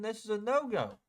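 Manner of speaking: high, pointed "This is a no-go"; market's verdict. Retold or imitated. Trader voicing the market's refusal, high and pointed. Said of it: "It said".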